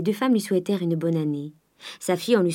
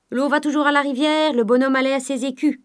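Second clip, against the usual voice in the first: gossiping merchant; 8 semitones higher, 5 dB louder than usual. A narrator's reading. Shopkeepers gossiping.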